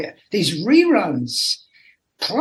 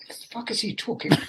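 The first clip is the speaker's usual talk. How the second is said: baffled aside; 4 semitones higher, 8 dB quieter, faster than usual. Retold or imitated. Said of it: "And they would go".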